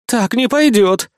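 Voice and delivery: firm objection. A narrator's reading. Valkyrie objects.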